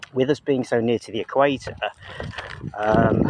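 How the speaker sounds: breathless, catching breath; talking while short of breath. Real, not acted. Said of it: "getting out of breath here".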